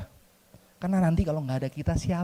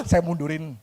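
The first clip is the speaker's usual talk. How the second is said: ordinary talk, nothing marked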